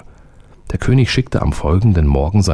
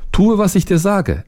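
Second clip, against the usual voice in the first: higher, commanding soldier's order; stern soldier. A narrator's reading. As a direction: give the order, no arguing. Soldier orders the little man.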